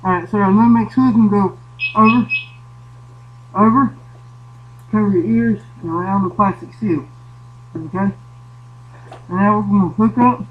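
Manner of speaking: muffled through an air mask; talking through a sealed face mask; firefighter air mask. Real, not acted. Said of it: "I know it's hard to hear me".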